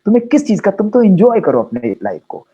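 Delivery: a lightly voiced loving father, rising high and soothing; loving Baba's voice. Baba tells a worried child not to fear, lightly voiced fatherly reassurance. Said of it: "बाबा कहता है".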